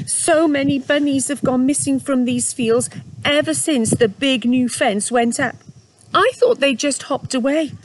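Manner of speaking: trapped mother rabbit, mildly mournful; lightly voiced mother rabbit, sad. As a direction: voice the worried mother rabbit, gently.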